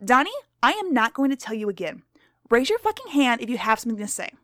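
lightly voiced stern schoolteacher; strict teacher. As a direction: read to the class as a stern teacher.

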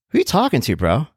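put-on high-pitched confrontational bro accent; tough street accent. Mover squaring up to the rude neighbor, tough street accent. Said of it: "I'm got an accent now".

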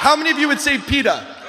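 calling out to the crowd. Shown as a demonstration. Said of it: "Let me try that again".

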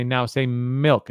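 slow, spaced-out word prompt; lightly acted parent teaching a word; parent coaching toddler. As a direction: stretch "milk" out for a child to copy. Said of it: "He's gonna say".

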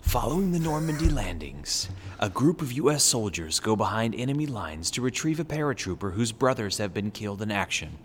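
intense movie trailer narrator. Acted. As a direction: read it like a dramatic trailer. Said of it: "my intense, uh, trailer guy voice".

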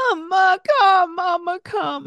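put-on high, insistent child's wail; a toddler crying for Amma; whining toddler. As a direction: beg to be picked up like a small boy. Toddler demands she come.

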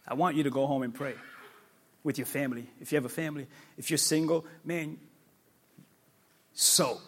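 low, soft, intimate; quiet earnest appeal. Real, not acted. Pastor speaking softly to families at home. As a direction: lean in and say it softly.

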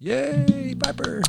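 high happy cheer; excited cheer. Real, not acted. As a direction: cheer her name out high. Cheering the graduate.

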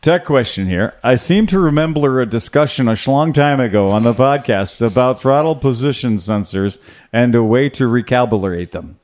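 lightly hammed-up accent, words slurred together; put-on Misfits-style accent. Host reading a listener's tech question, in a put-on accent. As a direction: read it out in a mock slurred accent. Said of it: "I gotta do the accent thing like they do on the Misfits".

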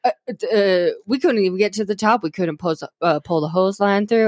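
put-on lightly done southern accent. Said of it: "I am doing a southern accent".

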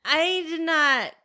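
slow emphatic no. Real, not acted. To friend about the movie, slow drawn-out denial. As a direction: drag the denial out. Answering about Hocus Pocus.

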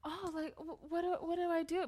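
sarcastic, faltering fake wondering. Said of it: "it's so sarcastic, like".

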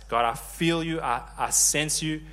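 earnest prayer, lifted a little; spoken-out prayer. Acted. Worshipper telling God they sense him, spoken-out prayer. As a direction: speak it out to God, taking time over it. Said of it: "you need to speak it out".

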